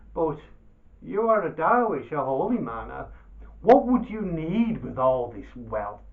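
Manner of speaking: loud, pleading merchant; wheedling merchant. Acted. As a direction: coax the Dervish into giving back. Baba Abdallah pleads with Dervish.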